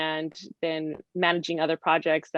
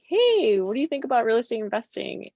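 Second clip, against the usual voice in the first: raised, drawn-up 'hey' then quick easy question; upbeat casual pitch; 4 semitones higher, 4 dB louder than usual. Retold or imitated. Husband pitching real estate to his skeptical partner, upbeat. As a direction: lightly imitate someone floating an idea.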